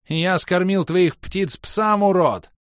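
high, loud, defiant shout; furious yell. A narrator's reading. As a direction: hurl it back as a shouted insult. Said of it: "заорал Снежный".

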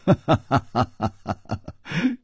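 a light chuckle that lifts at the end; soft rising chuckle. Acted. 楚留香对蹲着的少女轻笑, soft rising chuckle. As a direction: chuckle gently before explaining. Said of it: "楚留香柔声说".

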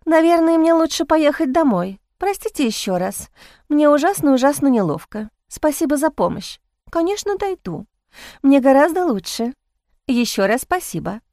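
high, sugary apologetic voice; sweet helpless lady. Acted. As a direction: gush thanks like a fragile lady. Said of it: "уже нормальным".

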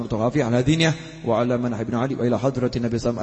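brisk Arabic prayer recitation; prayer dedication. Acted. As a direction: lead the congregation through a rolling prayer.

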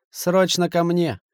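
slow, firm order; commanding. A narrator's reading. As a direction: give the order slowly and firmly. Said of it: "приказал Касимов".

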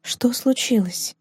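slow, soft and caring; gentle question. Acted. Rosina gently asks her upset friend, slow and soft. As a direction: ask softly, as if afraid to hurt her. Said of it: "Розина ласково спросила".

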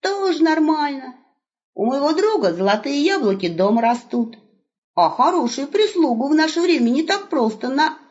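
put-on high, bright calling out to the old man; young wolf hailing grandpa; cheerful young wolf.

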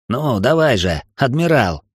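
a touch of metallic mockery; taunting. Эл goading the admiral, mildly mocking. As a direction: needle him, nearly sneering. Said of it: "Эл почти издевался. Его голос звенел металлом".

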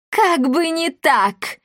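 high, slow spiteful hiss. A narrator's reading. Leonella defies the king, mild spiteful hiss. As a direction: spit the words back in rage. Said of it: "прошипела Леонелла".

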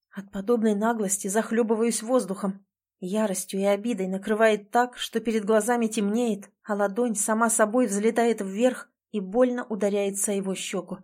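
ordinary delivery, nothing marked

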